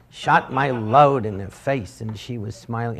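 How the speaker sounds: slow announcer punchline; a hint of a sportscaster, drawn out; Howard Cosell reading. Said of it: "I started doing Howard Cosell reading these letters".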